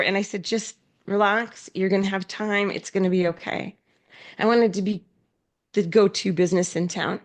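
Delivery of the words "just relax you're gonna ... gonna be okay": reassuring. Retold or imitated. Reassuring her employees.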